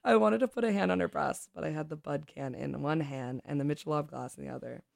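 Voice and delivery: expressive read-aloud of a story. Acted. Reads a short story aloud.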